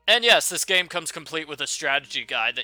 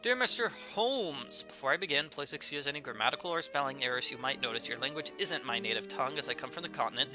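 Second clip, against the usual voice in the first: letter read aloud; 4 dB quieter than usual. Real, not acted. Player reads a letter to Holmes aloud, soft reading voice.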